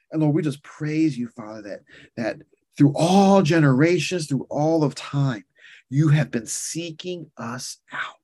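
fervent spoken prayer, fading to hushed amens; earnest pastor's prayer, softening at the end; closing prayer. Acted. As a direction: pray over the congregation.

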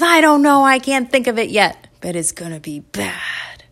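put-on high, loud kid losing steam; tantrum threat. Candy keeps up tantrum threat.

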